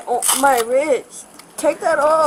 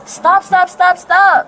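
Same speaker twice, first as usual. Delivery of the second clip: pained shouting; 3 semitones higher, 5 dB louder, slower than usual. Real, not acted. Cuffs hurting her wrist.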